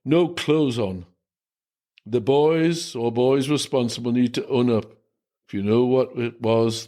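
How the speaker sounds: a lightly voiced stern priest addressing the school; grave, measured sermon to the boys; a hint of an angry Irish priest; stern headmaster priest.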